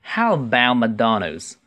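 slow model question; unhurried, careful demonstration; slow reading. Shown as a demonstration. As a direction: read it slowly for learners. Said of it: "慢读一次".

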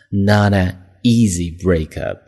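"Not an easy breakup" read slowly with a fall on "easy"; slow, clear reading. Shown as a demonstration. Teacher repeating the phrase slowly for the class. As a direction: spell it out slowly for learners.

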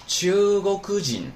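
秋沟哭基恩 slow, high and level, falling at the end; model pronunciation. Shown as a demonstration. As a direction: demonstrate 秋沟哭基恩 as one slow, high word. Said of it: "那怎么读呢". (秋沟哭基恩放慢高读示范，结尾降调)

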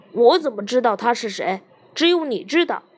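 sudden angry outburst. Acted. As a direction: snap back in sudden anger. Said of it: "猛地发火说". (突然发火，大声质问)

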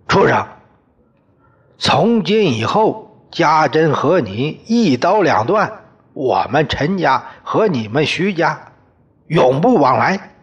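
high, loud final verdict; father-in-law shouting a final break with the family; angry shout. Acted. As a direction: cut him off for good. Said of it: "对我喊".

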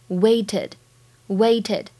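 "waited" slowly, with the added -ed as its own syllable; clear -ed ending. Shown as a demonstration. Teacher demonstrates the ending of "waited", slow and distinct. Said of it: "加上了E D，要读作waited".

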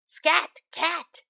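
lightly voiced dog shooing the cat away; a hint of a gruff dog saying scram.

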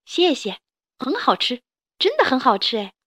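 lightly voiced delighted kid; a child thanking dad; happy little child. 小恐龙道谢. (小孩子开心地道谢)

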